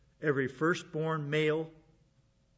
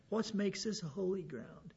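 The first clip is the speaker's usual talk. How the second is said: slow, softer, dopey voice of a doubter; mock dummy question; 4 semitones higher, 7 dB quieter than usual. Preacher imitates what a dummy would ask God. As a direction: drawl out a foolish objection. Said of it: "like so many dummies would have done".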